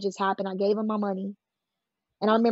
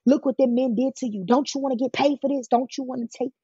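mildly acted, higher-pitched pressing questions; manipulative goading; 4 semitones higher than usual. Pimp pressuring the girl he snatched up, manipulative goading. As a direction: lightly imitate a manipulator goading a child. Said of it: "he was very manipulative".

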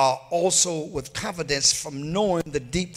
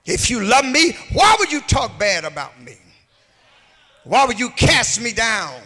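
a rising preacher's cry; preaching at full force; 2 semitones higher than usual. Acted. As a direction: plead it out to the congregation. Preacher rises again.

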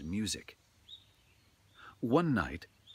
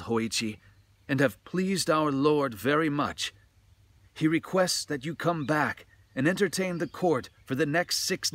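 higher, louder female attendant; court lady's voice; 6 semitones higher, 6 dB louder than usual. A narrator's reading. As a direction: command the musician like a head attendant. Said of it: "the woman's voice said".

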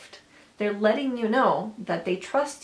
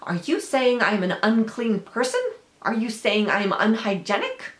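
louder, pissy indignant questions; huffy, defensive; 5 dB louder than usual. Acted. Offended person answering someone who pointed out spinach, huffy and defensive. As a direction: act offended, pushing each question out louder. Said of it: "huffy and defensive and pissy".

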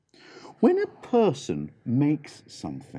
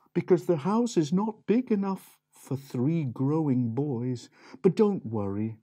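gentle mum; 3 semitones higher than usual. Acted. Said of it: "their mum said".

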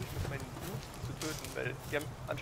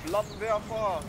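excited shout; 6 semitones higher, 7 dB louder, much slower than usual. Real, not acted. Calling out flamethrower in game.

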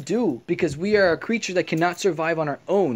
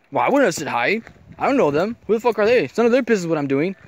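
mock angry retort; 4 dB louder, faster than usual. Her retorting angrily in argument.

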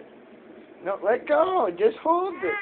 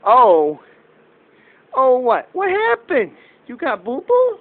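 alarmed concern; 3 semitones higher, 10 dB louder, slower than usual. Real, not acted. Child hurt, father alarmed.

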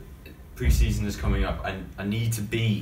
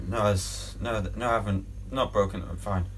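panicked denial; 9 dB louder than usual. Acted. Player denies broken ribs.

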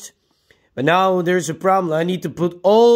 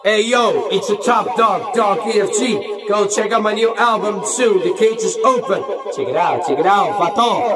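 raised-pitch rapper's stage intro; hype-man announcing; 3 semitones higher than usual. Pretend. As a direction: hype up the crowd on the mic. Testing karaoke mic, hyping album.

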